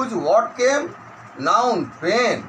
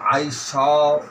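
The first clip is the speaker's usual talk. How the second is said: slow word-by-word dictation; measured classroom dictation; 3 semitones lower, 8 dB quieter, slower than usual. Shown as a demonstration. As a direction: dictate with long gaps, each word drawn out level. Dictates exercise sentence.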